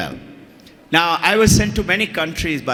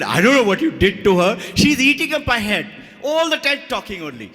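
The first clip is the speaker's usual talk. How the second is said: exasperated mother's grumble, rising higher; retold complaint; 5 semitones higher than usual. Mother complains to the teacher about her talkative daughter, mock exasperated.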